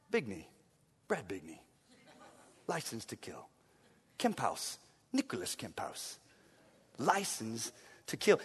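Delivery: low, soft, cool secret-agent voice; Bond-style intro. Pretend. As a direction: murmur it like a suave spy. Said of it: "James Bond face and say".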